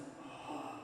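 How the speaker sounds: a quick startled gasp; sharp gasp. Retold or imitated. Preacher gasping at the sight of the woman. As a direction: catch your breath in sudden alarm. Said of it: "I was just like".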